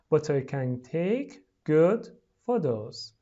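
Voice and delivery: slow, carefully separated words. Shown as a demonstration. Teacher reading for pupils to repeat, slowly. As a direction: say each word slowly and distinctly.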